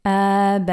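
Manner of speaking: أأنتم with each hamza stopped at the vocal cords; clear hamzas. Shown as a demonstration. معلم ينطق أأنتم بوضوح كل همزة. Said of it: "Make sure that you're pronouncing each hamza".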